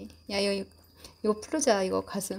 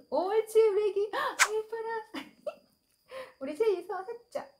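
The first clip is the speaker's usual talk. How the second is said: squeaky praising a dog; 11 semitones higher than usual. Real, not acted. Praising dog for giving paw.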